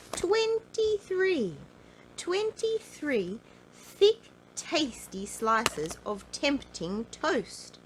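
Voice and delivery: high, loud, slow astonished cry; slow high marvelling announcement; amazed exclamation. A narrator's reading. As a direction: savour the huge number. Narrator exclaims amazing number.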